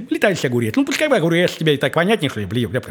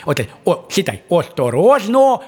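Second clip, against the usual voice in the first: показывает, как читать; 4 dB louder than usual. Shown as a demonstration. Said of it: "Вот смотри, вот ты это сейчас делал".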